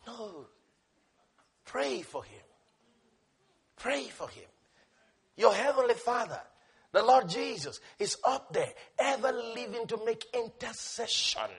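very soft, with long pauses; hushed correction. Real, not acted. Preacher telling them to pray for him, hushed and gentle. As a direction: drop to a gentle near-murmur.

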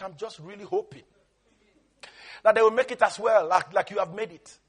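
softly spoken, low-key God with a worried heart; God welcoming a daughter. Acted. God welcomes a daughter into heaven, softly voiced worry. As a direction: confide it softly, with gentle pauses. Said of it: "and God just says".

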